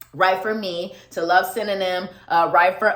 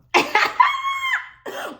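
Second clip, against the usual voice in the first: burst of laughter. Real, not acted. Laughing at own singing.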